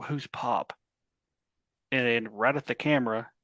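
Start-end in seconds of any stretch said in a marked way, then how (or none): 0.1-0.7 soft, hushed whisper. Retelling a question his wife asked during a ghost hunt: imitating a whisper. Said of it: "my wife kinda whispers".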